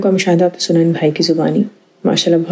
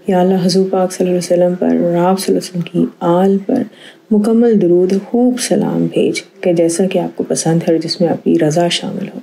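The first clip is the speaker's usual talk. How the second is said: earnest closing supplication, steady and devout; prayer. Real, not acted. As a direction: pray sincerely to close the programme. (عاجزی سے دعا)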